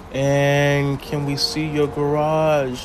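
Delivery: slow, stretched-out question; drawn-out reading. Real, not acted. Streamer reading out a viewer's question, slow and drawn out. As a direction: read it out slowly, drawing out the words.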